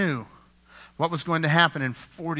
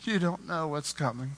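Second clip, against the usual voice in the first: tearful lament; 8 dB quieter than usual. Retold or imitated. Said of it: "he's starting to cry".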